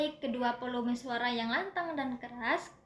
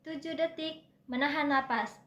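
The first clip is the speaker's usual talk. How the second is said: breathing demo. Shown as a demonstration. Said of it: "di sini saya akan praktekkan".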